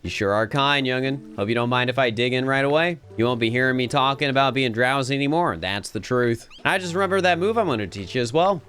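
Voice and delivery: put-on folksy, lively Southern accent; Southern Gyarados. Gyarados teaching a young'un Waterfall, Southern accent. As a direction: teach it like a down-home Southern mentor. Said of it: "why they made Gyarados Southern".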